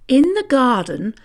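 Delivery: ordinary delivery, nothing marked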